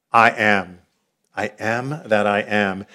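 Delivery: low, soft and slow, a solemn divine voice; hushed solemn God. Acted. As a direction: intone it quietly like God answering Moses. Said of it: "And God responded with".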